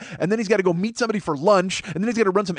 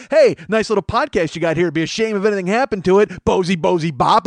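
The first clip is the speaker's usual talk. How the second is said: smiling menacing loan shark; 3 semitones higher, 4 dB louder than usual. Retold or imitated. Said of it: "He's trying to come to my storefront and going".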